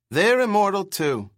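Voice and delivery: put-on high, loud screeching old boss; screechy old man. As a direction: screech it with certainty. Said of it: "his bird screech voice".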